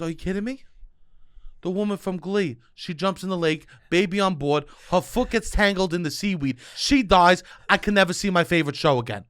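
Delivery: panicked mom, high and loud; a mother losing it over Glee; frantic mother. Retold or imitated. Mother voiced, worked up.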